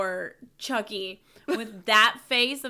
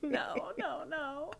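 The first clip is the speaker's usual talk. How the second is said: laughing no; 4 semitones higher, slower than usual. Real, not acted. Laughing repeated no.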